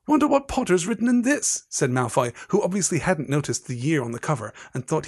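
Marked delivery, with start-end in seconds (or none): 0.0-1.6 high-pitched mocking musing; taunting. Malfoy holding Harry's diary, high and taunting. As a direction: needle him in a raised, teasing voice.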